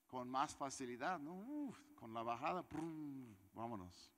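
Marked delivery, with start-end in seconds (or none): 1.3-3.3 whooshing puff, then a soft engine "prum"; imitated bike noise. Pushing the bike downhill, light engine imitation. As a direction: imitate a motorbike coasting downhill.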